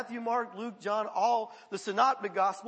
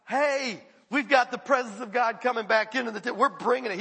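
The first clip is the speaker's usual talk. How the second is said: excited announcement; 2 semitones higher, 6 dB louder than usual. Retold or imitated. Voicing David's excited crowd.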